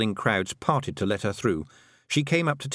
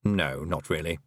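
toad voice; 5 semitones lower than usual. A narrator's reading. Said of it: "said the toad".

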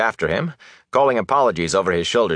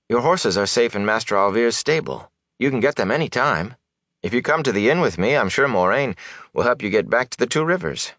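higher, earnest villager voice; calm his worries helpfully; reassuring young man; 5 semitones higher than usual. Acted. Young villager offering help with the horses, reassuring.

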